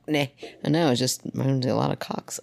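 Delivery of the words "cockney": "Cockney" split into COCK, then NAY; abrasive. Shown as a demonstration. Proving the word is abrasive, "Cockney" chopped in two. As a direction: hit the first half of "Cockney", then pause. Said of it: "it's an abrasive word".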